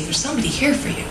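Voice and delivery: quick, urgent retelling of the call. Retold or imitated. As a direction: hurry it, a touch of alarm. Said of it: "he had said with quite a bit of urgency".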